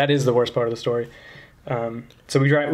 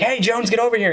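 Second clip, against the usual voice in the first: high-pitched imitated call to a colleague; 9 semitones higher than usual. Gate guard summons the other guard, calling out. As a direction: hail someone across the road, without real volume.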